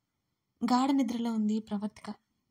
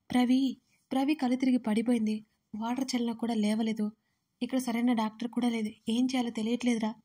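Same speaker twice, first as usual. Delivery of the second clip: anxious telling. Acted. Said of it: "అని కంగారుగా అన్నాడు ప్రణయ్".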